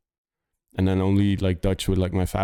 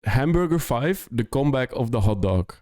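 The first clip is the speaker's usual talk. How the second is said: incredulous quote; 2 semitones higher than usual. Retold or imitated. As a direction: repeat the silly message like you can't believe it. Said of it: "You, you said".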